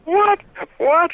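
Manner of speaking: high, startled double what; imitating his own stunned reaction; shocked. Retelling his shock at barbershop.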